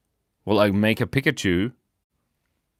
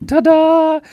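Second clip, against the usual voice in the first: excited ta-da; 8 dB louder than usual. Real, not acted. Unveiling the drawing.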